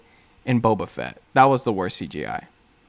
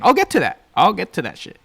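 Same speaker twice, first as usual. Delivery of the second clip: squeaky aside; 8 semitones higher, 5 dB louder than usual. Real, not acted. Brushing off his own point.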